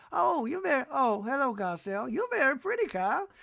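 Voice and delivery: high, sing-song imitation of an old Southern lady. Podcaster imitating a singer complimenting Kyle, high and cooing. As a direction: coo it sweetly like a grandmother.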